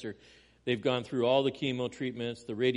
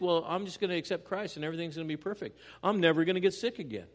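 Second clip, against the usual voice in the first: fast, rising, louder mock optimism; gleeful mock certainty, building louder; mocking naive believer; 5 semitones higher, 6 dB louder, faster than usual. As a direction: ham up the naive promise. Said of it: "they think".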